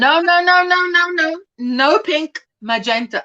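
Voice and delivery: lightly imitating a friend's string of objections; playful mock protest, noes run together; mildly put-on voice of an absent friend objecting. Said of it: "I'll do a V impersonation in her absence".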